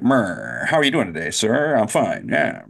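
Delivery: put-on old-movie 1940s talk, swooping pitch; mock Mid-Atlantic small talk; imitated Mid-Atlantic accent. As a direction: mimic forties film actors' Mid-Atlantic accent. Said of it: "they were talking like that".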